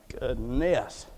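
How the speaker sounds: low, soft murmur of dismay; restrained exclamation. Acted. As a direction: say it under your breath, pitched low. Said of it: "let me rephrase and reframe".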